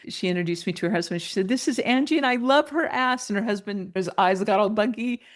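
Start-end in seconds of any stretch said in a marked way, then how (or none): 1.5-3.3 higher, lightly gushing; excited introduction. Retold or imitated. Woman introduces new friend to her husband, mildly gushing.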